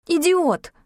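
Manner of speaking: высокий громкий выкрик; выкрикнуть в сердцах; крик. A narrator's reading. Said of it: "крикнула я". (героиня кричит на Багрова)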